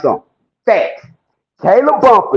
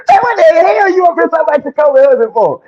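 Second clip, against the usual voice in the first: mock angry judge; 9 semitones higher than usual. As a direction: bark it at her like an outraged judge. Mocking the judge scolding her.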